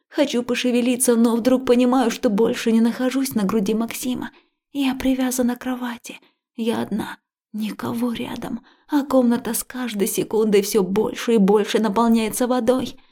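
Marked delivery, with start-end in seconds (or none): none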